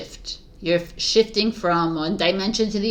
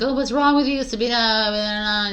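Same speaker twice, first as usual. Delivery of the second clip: mock concerned questioner; 4 semitones higher than usual. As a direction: mimic someone fussing, pitched up and stretched at the end. Acting out people questioning her quietness.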